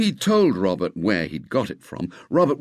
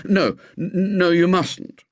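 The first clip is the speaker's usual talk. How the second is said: quick, pressing, higher and louder; urgently; 8 semitones higher, 3 dB louder, slower than usual. A narrator's reading. William urgently stops Robert from thanking the man. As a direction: stop him fast, urgent. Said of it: "said William urgently".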